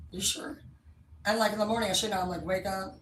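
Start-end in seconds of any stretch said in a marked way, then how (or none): 0.1-0.6 hushed, breathy "you sure?"; a worried whisper to her date. Retold or imitated. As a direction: whisper it so the neighbors can't hear. Whispered question to him at night.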